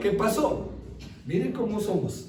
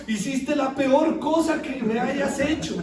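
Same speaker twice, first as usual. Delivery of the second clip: mock reproach; 5 semitones higher than usual. Voicing the crying photo's reproach.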